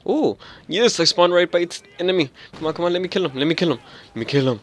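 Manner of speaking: high eager pleading chant; psyching myself up. Real, not acted. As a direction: egg yourself on for the kill. Urging himself to get kill.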